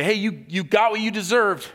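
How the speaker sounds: smug, high and loud gloat; mock gloating over a fallen man. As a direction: lord it over him, mocking. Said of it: "stand over him and say".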